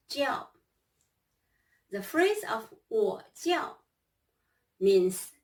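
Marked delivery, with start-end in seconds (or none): 0.1-0.5 叫 held high and level; first tone. Shown as a demonstration. Teacher models 叫 high and level for students. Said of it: "One more time".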